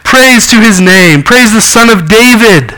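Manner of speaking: put-on children around Jesus shouting praise, high and joyful; children praising. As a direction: cry it out like excited children in the temple. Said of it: "and just going".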